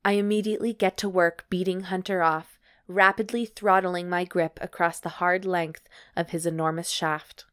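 measured, evenly paced read-aloud; story narration. Acted. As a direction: narrate it like an audiobook. Reads erotic story aloud.

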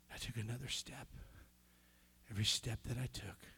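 low, soft, near-whispered telling; hushed awe. Real, not acted. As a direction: tell the miracle under your breath in awe. Hushed retelling of miracle walk.

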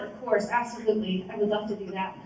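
softly compliant; hushed, polite agreement masking reluctance; outwardly agreeable reply. Retold or imitated. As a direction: give a meek, soft yes. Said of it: "what comes out of my mouth".

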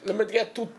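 put-on botched try at an English accent; attempted English accent. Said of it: "I can't do an English accent".

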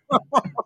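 a sudden high laugh bursting out; high burst of laughter. Real, not acted. Laughing at his own toilet story. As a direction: let a laugh break out high.

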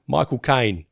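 "Michael Caine" in a put-on Jamaican accent; mock Jamaican accent. Shown as a demonstration. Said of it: "in a, in a Jamaican accent".

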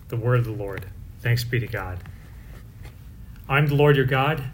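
measured, solemn scripture proclamation; liturgical reading. Acted. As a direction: proclaim it like a lector at Mass. Proclaims the Mass readings aloud.

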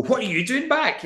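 high, squeaky mock disbelief; mock-surprised high voice asking why they're back; mock surprised staff voice. Imagined staff greeting a returning kid.

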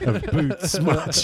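words squeezed through laughter, slow and high; giggling through the words; laughing. Real, not acted. Laughing while joking to friends about Windows.

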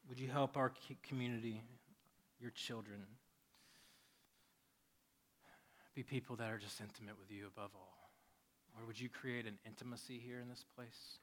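gentle prayer with long pauses; unhurried, subdued pastoral prayer. Real, not acted. Leads the congregation in prayer.

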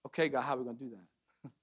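low, soft, doubtful aside; hesitant Moses. Acted. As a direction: voice a quietly daunted reply to God. Voicing Moses answering God.

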